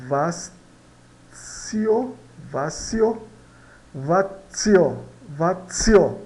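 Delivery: "Vazio" repetido, articulado; pronúncia espanhola. Shown as a demonstration. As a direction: diga "Vazio" com o Z suave. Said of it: "quase muda esse T aqui". ("Vazio" com Z quase mudo)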